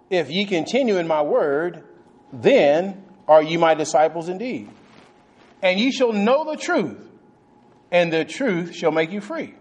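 slow, measured reading aloud; the preacher reading John eight to the congregation, slowly; scripture reading. Acted. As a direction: read the verse slowly and solemnly. Reads scripture.

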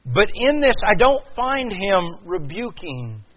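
high, loud pulpit cry; impassioned preacher at full volume; full-force preaching. Real, not acted. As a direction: drive each phrase out loud and high.

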